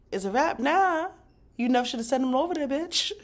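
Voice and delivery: high, loud rant at a character; excited rant. Real, not acted. Fan ranting at a TV character, high, loud and exasperated. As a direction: she blew it, go off on her.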